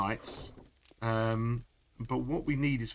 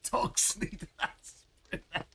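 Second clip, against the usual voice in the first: whisper; 6 semitones higher, slower than usual. Acted. Reacting to jump scare noise.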